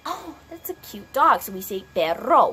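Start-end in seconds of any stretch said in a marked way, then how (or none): 0.0-1.4 cooing. Acted. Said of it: "when you see the dog, we're like". 1.9-2.5 "perro" with a Spanish R; Spanish R accent. Shown as a demonstration. Teacher giving the Spanish for dog, accented "perro". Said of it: "we have that R accent in it".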